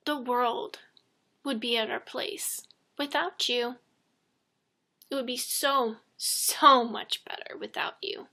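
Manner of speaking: quoting a bully in dead earnest; very serious. Retold or imitated. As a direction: deliver it seriously, with weight on the second "so". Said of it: "And he was very serious".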